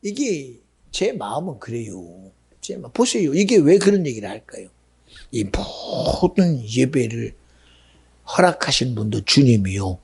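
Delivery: normal talking voice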